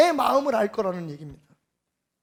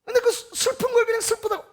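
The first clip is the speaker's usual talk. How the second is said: higher, choked up with real tears; voice breaking; 7 semitones higher than usual. Real, not acted. Preacher moved by a mother's grief, voice breaking. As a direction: let the voice crack with feeling.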